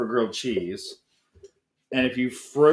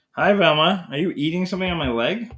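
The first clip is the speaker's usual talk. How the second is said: talking to the dog; 5 semitones higher than usual. Real, not acted. Greeting the dog sweetly.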